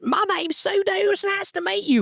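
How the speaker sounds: very high squeaky caricature of his own voice; mock impression of his drawl. Host showing people's impression of his Southern voice, squeaky high. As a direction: lampoon how others imitate you. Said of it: "that's people's impression of me".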